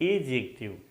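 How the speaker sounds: एजेक्टिव said with no d sound; silent d. Shown as a demonstration. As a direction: drop the D and say एजेक्टिव. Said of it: "इसको एडजेक्टिव ना पढ़ के". (एजेक्टिव, डी को मत पढ़ें)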